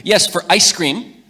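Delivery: put-on child answer. Daughter's answer.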